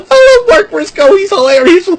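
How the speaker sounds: high, loud, laughing through the words; can barely talk for laughing. Real, not acted. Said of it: "I can't stop laughing".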